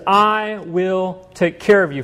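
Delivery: slow, deliberate promise; slow solemn reassurance from Jesus; authoritative promise. Acted. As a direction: speak it slowly as one with authority. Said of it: "as one with authority and says".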